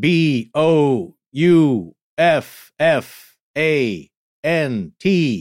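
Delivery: fast letter-by-letter spelling. On a Halloween show, pretending a Ouija board spells out a message: Ouija board spelling impression. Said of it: "that's my Ouija board impression".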